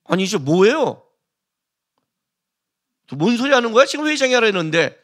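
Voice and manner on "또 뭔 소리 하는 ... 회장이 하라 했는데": higher-pitched mock indignation; indignant pushback. Employee pushing back at the manager over the chairman's order, indignant. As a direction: challenge it as an affronted employee.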